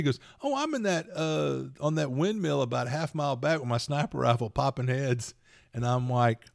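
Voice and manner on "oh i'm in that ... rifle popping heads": put-on starts much higher, casual kid; breezy boast from the kid; mimicking son. Son's casual answer mimicked.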